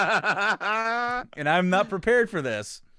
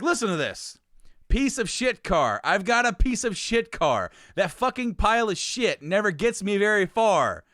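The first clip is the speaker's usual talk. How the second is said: mock angry reading; 4 semitones higher than usual. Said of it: "he's angry reading this".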